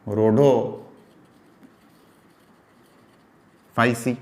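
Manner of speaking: extremely slow, रोडोफाइसी stretched out; slow dictation; drawn-out syllables. Shown as a demonstration. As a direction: drag रोडोफाइसी out so students can write it. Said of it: "teacher pronounces class name".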